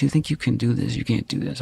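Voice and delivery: lightly voiced belittling stepfather; dismissive, sneering put-down of a child; mimicking stepfather. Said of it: "that was my stepfather's voice".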